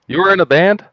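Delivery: high teasing fake surprise; mock surprise. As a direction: play it as a joking gasp. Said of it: "No, I'm joking".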